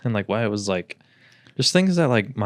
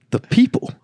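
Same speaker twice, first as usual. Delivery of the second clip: imitating half-asleep mumbling in a lifted voice; lightly voiced sibling talking in their sleep; high sleepy dream-talk; 14 semitones higher, 5 dB louder than usual. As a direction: play the dreamer totally sure of it. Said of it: "It's like".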